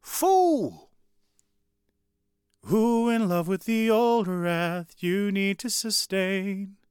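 high, slow, drawn-out yells of Fool; yelling prisoner. Retold or imitated. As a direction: cry out from a cell, hammed-up and slow. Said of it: "Then he hears this yell".

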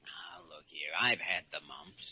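weak, breathless whisper; whispered protest. Acted. Sick man protests weakly.

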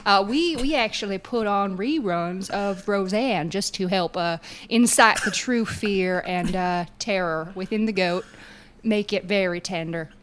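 put-on country server's accent. Restaurant server explains the goat menu to diners, in a put-on accent. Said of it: "That's why I put on that accent".

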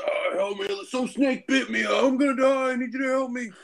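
high, frantic mock cry for help; hammed-up dying man begging; snake-bitten stranger begs for help, high mock panic; panicked plea. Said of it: "he's like".

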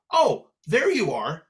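lightly voiced mother, drawing it out; like their mother. Sister at the computer finding her brother, sounding just like their mother. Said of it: "she sounded just like our mother".

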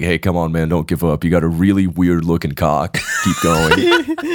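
a hint of life coach; pep-talk him, lightly hammed; mock motivational coach. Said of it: "Why did you say that like a life coach?".

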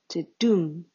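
the dum spoken as an iamb, stress on dum; rhythm demo. Shown as a demonstration. Poet demonstrating the iambic foot, stress on dum. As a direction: mark the beat: the DUM. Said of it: "reverse rhythm of the traditional iambic foot".

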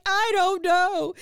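high, slow, loud crying. Retold or imitated. Woman crying to her sponsor on the phone, sobbing. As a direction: squeak it out through sobs. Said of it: "I cried my little eyes out".

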